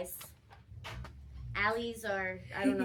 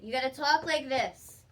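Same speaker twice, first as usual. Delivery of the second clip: clear, fuller speaking voice; projected clear delivery; 2 semitones higher than usual. Shown as a demonstration. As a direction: speak out to the room. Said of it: "like you're yelling at Kimberly".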